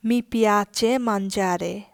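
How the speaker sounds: very slow, every word of Sì, mi piace laid out clearly; slow teaching read. Shown as a demonstration. Teacher reading the yes answer very slowly for learners. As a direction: drawl Sì, mi piace out for the class. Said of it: "নতুন যেই বাক্যগুলো এখানে লেখা আছে".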